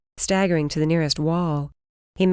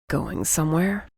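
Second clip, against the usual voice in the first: rough. A narrator's reading. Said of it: "he asked roughly".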